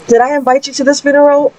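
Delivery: high, quick exasperated scolding. Retold or imitated. Mother confronting the intruder at the funeral, fast and indignant. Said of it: "I am super upset right now".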